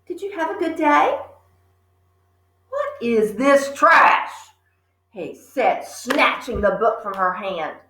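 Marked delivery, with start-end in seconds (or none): 0.0-1.2 put-on high sweet girl's voice; little girl. 2.7-4.3 angry father. Acted. Father snatching Matilda's book in disgust.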